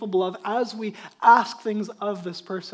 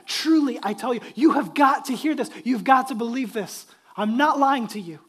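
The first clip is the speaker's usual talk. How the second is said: emphatic; 2 semitones higher, 6 dB louder than usual. Acted. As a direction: press it home with urgency. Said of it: "He's emphatic about it".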